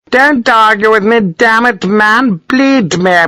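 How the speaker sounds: high, irate tirade; angry colonel. A narrator's reading. Colonel cuffing his protesting doctor, irate. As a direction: shut down the protest in a high, forceful voice.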